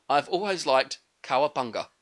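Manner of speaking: put-on deliberate old Japanese sensei accent, half-managed; Splinter's accent. Splinter telling the turtles he likes cowabunga, slow mock accent. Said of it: "I can't do the accent".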